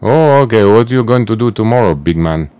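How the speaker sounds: loud, high mocking taunt. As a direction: goad him with a loud sneer. Taunting the mark on call.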